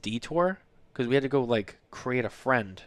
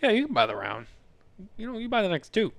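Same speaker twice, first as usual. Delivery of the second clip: higher, gleeful yell; mock delight; 10 semitones higher than usual. Father imagining his grown kid buying a round, gleeful. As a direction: cheer like a proud dad. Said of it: "You're like".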